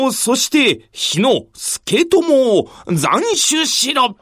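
a lord barking out a death order; cold commanding ruler; stern regent voice. Acted. Hojo Takatoki orders executions.

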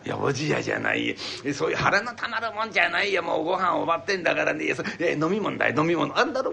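lightly voiced old man hinting around; wheedling old man. Old man hinting to his wife that he wants a drink, lightly voiced. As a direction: coax without saying it outright.

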